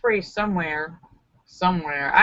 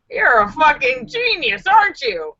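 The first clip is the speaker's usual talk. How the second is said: higher-pitched mock amazement; mock admirer; 6 semitones higher than usual. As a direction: play someone asking in exaggerated amazement. Acted admirer's quote in bit.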